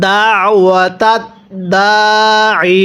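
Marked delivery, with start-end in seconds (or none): 0.1-1.2 দাওয়াতাত slowly with a pressed throat sound; throat pressure on ain. Shown as a demonstration. Teacher demonstrates ain pronunciation, slow. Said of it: "গলার মধ্যে একটু চাপ দিয়ে পড়ব".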